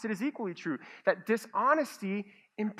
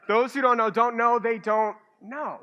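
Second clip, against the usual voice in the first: louder, pushing it out as a tongue twister; a half-joking tongue twister, louder; mock tongue twister; 3 semitones higher, 6 dB louder than usual. Shown as a demonstration. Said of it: "I'll just say this ten times fast".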